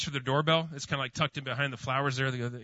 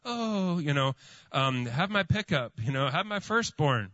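mock groveling; 2 semitones higher, slower than usual. Preacher mocks a groveling apology to the homeowner, pleading. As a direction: beg in jest, lightly overdone. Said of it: "from a groveling".

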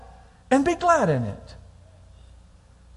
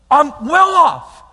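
drawn out I'm well off, raised and louder; slow loud declaration; 5 semitones higher, 7 dB louder, much slower than usual. Acted. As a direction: proclaim it slowly and firmly. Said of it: "preacher declares it slowly".

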